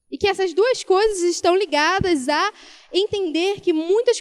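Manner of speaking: preaching. Acted. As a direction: preach it to the congregation with rising force. Preaching builds up.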